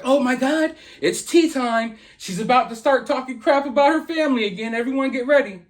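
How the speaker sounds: high-pitched mock fan excitement; fans going crazy. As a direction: imitate overexcited fans spreading the news. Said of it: "go crazy".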